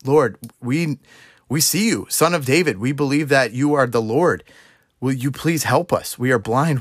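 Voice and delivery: mildly acted plea for help; pleading blind men. Two blind men call to Jesus for help, mildly pleading. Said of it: "they're crying out for help".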